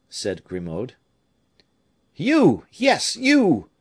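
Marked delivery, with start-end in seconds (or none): 2.2-3.7 very high, loud exclamation; heartfelt cry. A narrator's reading. Raoul moved by old servant's offer, heartfelt cry. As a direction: cry it out, deeply touched, voice leaping up. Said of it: "cried Raoul, touched to the inmost heart".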